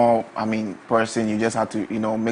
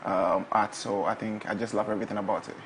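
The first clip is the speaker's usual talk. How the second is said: soft-spoken; 6 dB quieter than usual. Real, not acted. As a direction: speak softly, almost to yourself. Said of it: "Your sexy voice there".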